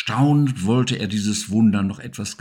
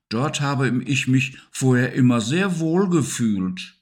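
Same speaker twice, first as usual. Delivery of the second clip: a little higher, calm creature voice; reassuring Siggi; 4 semitones higher, 3 dB louder than usual. Acted. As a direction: set your friend's mind at ease. Siggi reassures about his old spot. (etwas höher, beruhigend)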